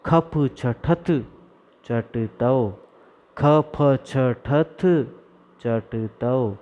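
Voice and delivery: drawn-out teaching chant; slow recitation. Shown as a demonstration. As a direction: chant खप छठत चटतौ slowly for the class. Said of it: "आप सब मेरे साथ में बोलिए।". (धीमा सस्वर पाठ)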